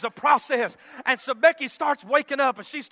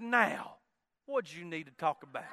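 imitated wife, gently asking as it drops lower; soft coaxing; 6 semitones lower, 6 dB quieter than usual. Wife hugs husband and asks what's wrong, soft coaxing. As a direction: ask softly, trailing down in pitch.

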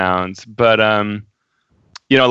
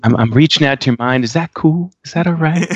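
hippie voice. Acted. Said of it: "hippie type of, of communication".

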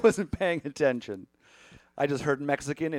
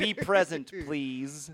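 alien voice; 3 dB quieter, much slower than usual. Shown as a demonstration. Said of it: "I say it like an alien".

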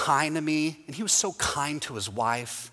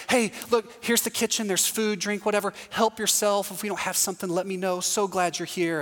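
welcoming hostess; 5 semitones higher than usual. Retold or imitated. Host mom shows the kitchen.

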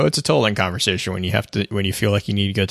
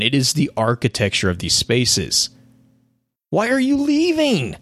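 Toland voice; 4 semitones higher than usual. Acted. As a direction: rant like a gleeful mad prophet. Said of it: "So King's Fall".

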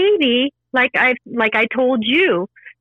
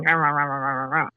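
low, quieter droning rah-rah babble; mock mind chatter; 7 semitones lower, 5 dB quieter than usual. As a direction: mimic the mind's endless nagging noise. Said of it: "not my mind going".

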